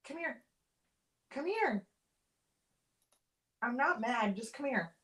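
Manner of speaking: soft coaxing call to a pet; quiet, reassuring pet-owner voice. Real, not acted. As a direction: gently talk a wary dog closer. Coaxing her dog to come over.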